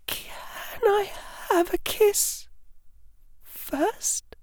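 high, slow, breathy shy whisper. Acted. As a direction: ask it timidly under the breath.

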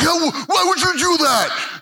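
put-on high, crying kid's whine; whiny kid. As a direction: mimic an upset teen whining. Son mad at brother's fart.

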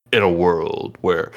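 lightly voiced trailer announcer, slow; a hint of slow announcer delivery; newsy announcer voice. Shown as a demonstration. Showing how ridiculous announcers talk, light announcer voice. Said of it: "that ridiculous, like, newsy thing".

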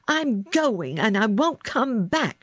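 high-pitched angry parting shot; mild scream. A narrator's reading. Girl quits sick boy's room, mildly screamed. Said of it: "she screamed".

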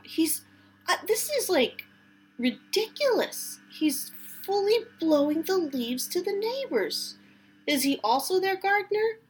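high-pitched incredulous rant; can't believe what she's seeing; exasperated disbelief. Real, not acted. Ranting at neighbor's leaf-blowing gardener.

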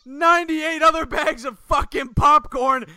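high, laughing mock rant; loud, high, hammed-up exasperation; imitated exasperated staffer. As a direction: act out a fed-up worker at breaking point. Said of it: "He's like".

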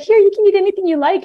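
put-on high, quick offer to a little kid; talking to child. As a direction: imitate coaxing a small boy with treats. Retold offer to a little boy.

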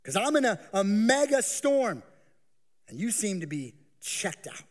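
high anxious complaint to God; voicing a worried believer. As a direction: plead like someone who feels abandoned. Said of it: "you're asking the question".

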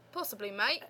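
attempted Australian accent; Aussie accent. Shown as a demonstration. Daughter tries an accent at dad's request, tentative Aussie accent. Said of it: "Can you do an Aussie accent?".

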